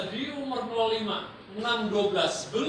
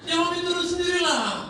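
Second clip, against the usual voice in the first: exasperated mother; 10 semitones higher, 4 dB louder than usual. Acted. Mother answering child in skit.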